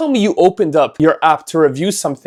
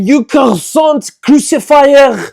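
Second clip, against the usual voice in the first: high, loud and slow, hamming up the insult; mock outraged insult; 10 semitones higher, 6 dB louder, slower than usual. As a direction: fling the insult with theatrical fury. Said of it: "And then I said".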